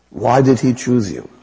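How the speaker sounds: imitated accent, insistent repeated question; Mother Teresa. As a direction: press the question in the nun's put-on accent. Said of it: "I have to use the accent".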